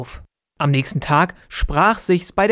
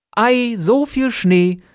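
higher, slow, amazed exclamation; delighted cry; 7 semitones higher, slower than usual. A narrator's reading. Boy at the window seeing snow, delighted cry. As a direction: marvel at the snow like a child. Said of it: "rief er".

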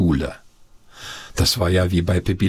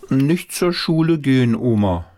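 put-on child pleading; 5 semitones higher than usual. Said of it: "antwortete Paul".

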